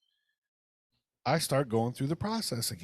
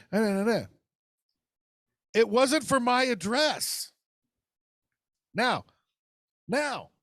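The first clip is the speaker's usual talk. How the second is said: incredulous outburst; 8 semitones higher than usual. Retold or imitated. Telling the co-host the address was wrong, outraged and high. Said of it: "I'm losing my shit".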